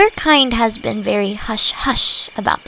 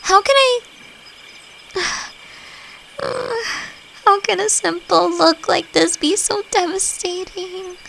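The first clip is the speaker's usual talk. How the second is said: much higher, exasperated whine with a sigh; flustered; 10 semitones higher than usual. Acted. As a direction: cave in to those puppy eyes. Melting at the pleading look.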